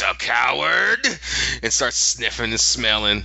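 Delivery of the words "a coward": affronted rising question, mildly acted; Yorick. Bear gets in girl's face, mock-affronted and rising. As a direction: throw the word back as a challenge. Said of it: "And he gets in her face".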